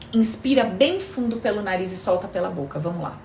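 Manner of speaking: calm them down gently, unhurried; soft spa whisper. Acted. Leads a breathing relaxation.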